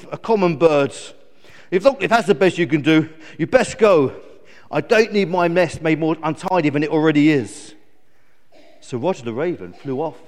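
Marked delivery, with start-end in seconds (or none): 0.1-7.8 loud, dismissive eagle character; lightly voiced haughty eagle; grumpy eagle. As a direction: send the visitor off huffily.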